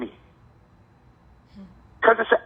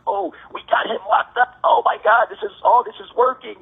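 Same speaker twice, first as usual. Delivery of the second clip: gleeful mock cheer, higher; mocking excitement; 4 semitones higher than usual. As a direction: imitate people gloating over a win.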